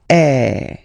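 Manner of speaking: loud open eh for circonflexe; open French ê. Shown as a demonstration. Teacher repeating circonflexe sound. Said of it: "it's the open one".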